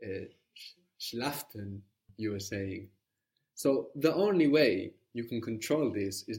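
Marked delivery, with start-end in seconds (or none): 1.0-1.8 "schlaften" with an added t before the ending; imitating the learner's "schlaften"; extra t sound. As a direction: say it as "schlaften", slipping in a t. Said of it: "put in extra sounds".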